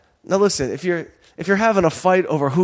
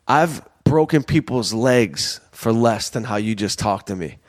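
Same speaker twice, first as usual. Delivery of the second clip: calm threat. Retold or imitated. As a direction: deliver the threat calmly, without raising your voice. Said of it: "the way he said it so calmly".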